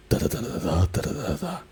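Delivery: "da" repeated like evenly spaced claps; steady, unswung "da da da"; even clapped rhythm. Shown as a demonstration. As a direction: clap out each "da" on an equal beat. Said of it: "five claps, kind of like".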